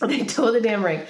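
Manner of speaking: said again through a laugh; laughing repeat. Real, not acted. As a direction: laugh it off this time.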